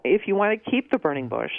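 sarcastic lilt on the condition. Real, not acted. Garden expert needling a burning bush owner, sarcastic. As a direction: say it as if who would want to. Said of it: "I'm being sarcastic here".

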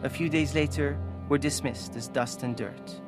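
measured, solemn reading aloud; story narration. A narrator's reading. Author narrating the protests and aftermath, solemn. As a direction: read it gravely, letting the end fall away. Reads own book aloud.

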